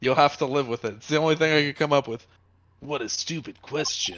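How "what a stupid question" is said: gruff put-on game-character voice. Role-playing a scene, answering a question: bad Solid Snake impression. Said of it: "I'm doing a bad Solid Snake".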